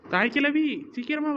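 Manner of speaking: high, slow call across the yard. Acted. Young woman calls the old woman to come quickly, high and loud. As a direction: stretch it out, calling loudly.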